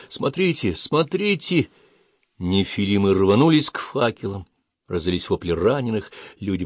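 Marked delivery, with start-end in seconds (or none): 0.1-1.7 higher-pitched urgent call, rising on the repeat; pressing "look, look" alert; urgent interruption. A narrator's reading. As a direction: cut in to make them look. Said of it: "Ада перебила его".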